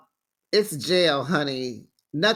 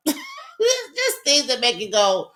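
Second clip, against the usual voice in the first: laughing through it; 9 semitones higher, slower than usual. Real, not acted. Laughing at the fake lashes.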